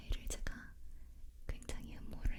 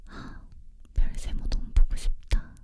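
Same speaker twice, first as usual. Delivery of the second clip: sighing with longing; 9 dB louder, slower than usual. Retold or imitated. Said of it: "땅을 보고 한숨을 푹푹 쉬면서".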